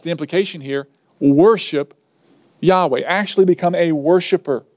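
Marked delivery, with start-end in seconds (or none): 1.2-3.0 worship set apart and hit, then Yahweh after a pause; stress on worship. Shown as a demonstration. Preacher spelling out the commandment, stress on worship. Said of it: "the emphasis is on the word worship".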